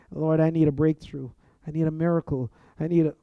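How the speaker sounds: earnest, rising prayer plea; a believer pleading before God. Shown as a demonstration. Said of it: "So my prayer will go something like this".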